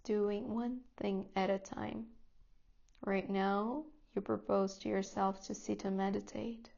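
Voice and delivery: calm, unhurried guidance with long pauses; guided meditation. Real, not acted. Teacher settling students into seat, breath and body, guided meditation voice. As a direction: ease them gently into stillness, phrase by phrase.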